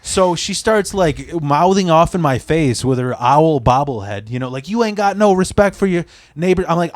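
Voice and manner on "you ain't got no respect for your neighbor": mock Black American accent, pitched higher; imitated Black accent. Neighbor mouthing off in his face, mock Black accent. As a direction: mimic her affected Black accent, higher. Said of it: "she just starts talking in black accent".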